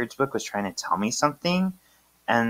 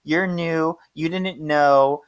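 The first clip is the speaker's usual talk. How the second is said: higher, drawn-out reassurance; reassuring politeness; 4 semitones higher, slower than usual. Acted. Phoebe reassures the apologizer, higher and drawn out. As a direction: wave off the apology, stretching words.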